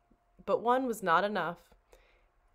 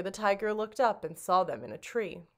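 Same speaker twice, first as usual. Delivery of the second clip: usual speaking voice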